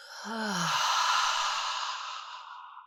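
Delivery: long sigh out through the mouth; audible exhaled sigh. Shown as a demonstration. Guide showing listeners the mouth exhale, long breathy sigh. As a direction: let the breath pour slowly out. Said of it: "sigh out the mouth".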